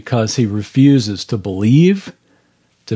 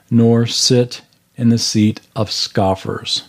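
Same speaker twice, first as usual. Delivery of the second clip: scripture reading. Acted. Reads Psalm one aloud.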